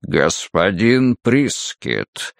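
deep guttural beast voice, very slow; low register drop. Acted. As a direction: growl it out slowly like a beast. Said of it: "утробным голосом произнёс Малдун".

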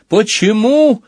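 high-pitched challenging outburst; crying out. A narrator's reading. Youth challenges the machine's warning, crying out. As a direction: shoot the question out high. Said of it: "выкрикнул он".

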